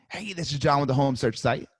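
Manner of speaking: friendly upbeat intro; sales call tonality. Shown as a demonstration. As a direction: introduce yourself lightly. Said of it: "Hear my tonality".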